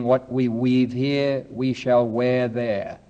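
slow, savoring the saying; slow quote. Shown as a demonstration. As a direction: let each word land slowly. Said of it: "That's wonderful, isn't it?".

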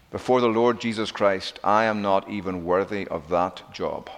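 low, soft, humble confession; quietly reverent, self-effacing; humble reverence. Retold or imitated. John's humble answer, quoted in sermon.

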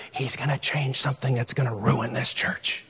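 soft, breathy whispered warning; the devil whispering fear into your ear; devil's whisper. Retold or imitated. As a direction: hiss it like a tempter in the ear. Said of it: "he's whispering in your ear".

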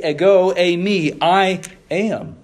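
loud, lifted voice of a false messiah saying I am; proclaiming false messiahs' claim. Acted. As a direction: declare it like a false messiah calling out.

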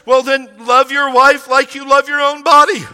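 loud, driving preacher's call on love your wife; preaching shout. Real, not acted. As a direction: hammer the command home to the husbands. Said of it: "preaching peak".

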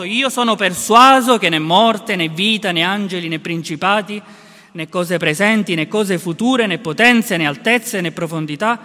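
loud, ringing proclamation of Paul's words; proclaimed scripture. Acted. Preacher reads Romans to the congregation, loud and ringing. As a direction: declaim it to the church with full conviction. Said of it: "ne parla in questi termini".

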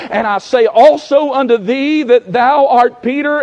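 ringing, measured Bible reading from the pulpit; scripture reading. Real, not acted. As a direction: proclaim the verse to the congregation. Reads scripture aloud to congregation.

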